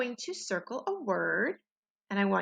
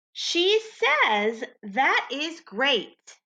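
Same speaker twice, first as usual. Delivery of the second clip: higher, slow, cheerful model read; model sentence to echo; 4 semitones higher, much slower than usual. Shown as a demonstration. Teacher models the new sentence for the class to repeat, excited. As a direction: lead it out slowly for the echo. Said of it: "Be my echo".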